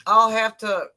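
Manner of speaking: enunciated mock British accent; playful British diction. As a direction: put on a careful British accent. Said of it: "if I use a British accent".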